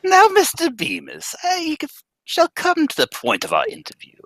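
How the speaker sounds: high, pompous boss voice; stern bank president. Acted. President calling the teller into his office, pompous. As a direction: lord it over the clerk.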